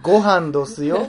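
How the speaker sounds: drawn-out mock Kyoto dialect; Kyoto maiko. Imagining how the parents talk at dinner, mock Kyoto maiko. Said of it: "舞妓さんやん".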